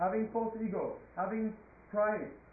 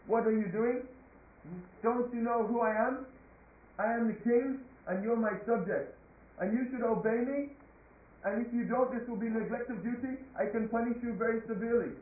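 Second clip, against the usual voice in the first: louder, imperious scolding; indignant royal dressing-down, voice raised a little; angry king; 2 semitones higher, 4 dB louder than usual. Acted. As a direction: pull rank on a disobedient subject. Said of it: "So the king, he became very angry".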